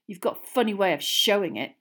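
loud sneer. A narrator's reading. Boy mocking his friend's claimed loyalty, sneering. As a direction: jeer at her claim. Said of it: "sneered Ron".

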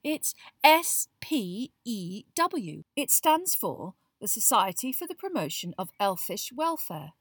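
letters stretched out, insistent; emphatic explanation. A narrator's reading. Girl explaining her new society's name to friends, emphatic. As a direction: spell it out slowly and loudly.

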